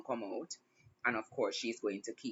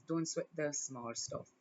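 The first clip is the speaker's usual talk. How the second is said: slow, deliberate reassurance; measured motherly counsel; slow firm advice; 4 dB quieter than usual. Real, not acted. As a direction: lay it down slowly and gently. Repeated advice, first take.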